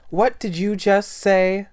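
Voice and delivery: high, loud, slow, shocked outburst; shrill outburst. Acted. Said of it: "That's not her voice".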